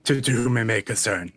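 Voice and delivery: theatrical host welcome; podcast intro voice. Acted. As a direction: open the show like a radio announcer. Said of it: "a very performative way of introducing".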